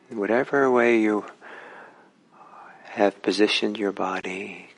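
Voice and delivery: unhurried instructions with long pauses; calm, spacious meditation-teacher delivery; guided meditation. Real, not acted. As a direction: guide listeners gently, phrase by phrase, leaving space between.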